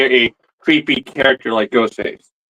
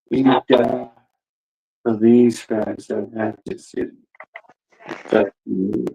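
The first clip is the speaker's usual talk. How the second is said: a hint of menace, slowed and lowered; Ghostface; 3 semitones lower, 4 dB quieter than usual. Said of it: "my little audition for the voice of".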